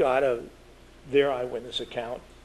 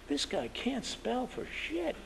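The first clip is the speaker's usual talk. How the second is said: blunt verdict; 12 semitones higher, 8 dB quieter, much slower than usual. Retold or imitated. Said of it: "He says".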